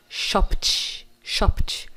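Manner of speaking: SHOPPED as "shopt" with a hissed T. Shown as a demonstration. Teacher models the past of shop, ED as T. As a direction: end SHOPPED on voiceless PT, no vowel. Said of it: "no passado vai ficar".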